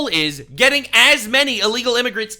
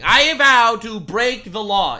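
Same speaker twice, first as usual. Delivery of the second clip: slow, stretched "vow" and "break the law"; mocking paraphrase; 3 semitones higher, 5 dB louder, slower than usual. Commentator paraphrasing a politician's promise, mock-solemn drawl on "vow". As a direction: lean on "vow", drawing the line out. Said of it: "is what he's saying".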